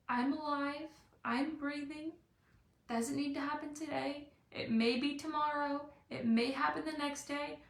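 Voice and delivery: calm reassurance. Shown as a demonstration. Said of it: "lean back a little bit and be like".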